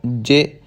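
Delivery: ਜੇ said short; short, light ਜੇ; short vowel. Shown as a demonstration. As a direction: cut the vowel of ਜੇ brief. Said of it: "ਇਹਦਾ ਉਚਾਰਨ ਛੋਟਾ ਕਰਨਾ ਹੈ".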